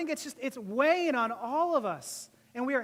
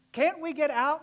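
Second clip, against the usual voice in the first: impatient plea, a bit louder; antsy; 3 semitones higher, 5 dB louder than usual. Acted. Noah's family stuck in the boat, antsy. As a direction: act itching to be let out. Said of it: "antsy, like".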